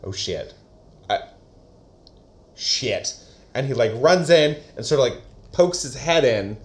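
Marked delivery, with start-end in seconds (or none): 0.0-3.1 softer, lower worried curse; muttered dismay. Retold or imitated. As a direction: curse under your breath. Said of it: "Augustus is like".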